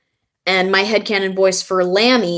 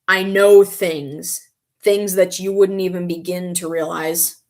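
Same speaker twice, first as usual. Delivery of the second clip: mock-serious knowing delivery, lightly done. Fan imitating an anime girl who knows too much, mildly serious. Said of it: "much more serious kind of tone".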